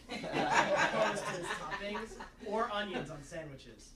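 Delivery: slow, loud, laughing protest; laughing through words. Real, not acted. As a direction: push through the line while cracking up.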